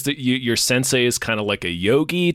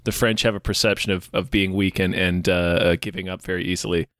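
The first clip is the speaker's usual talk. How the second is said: low, flat-stated lecture as the stern sensei; deadpan sensei; 5 semitones lower than usual. Retold or imitated. Retelling the sensei scolding the student, low deadpan delivery. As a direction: lower your voice and lay down the rules like a cult teacher.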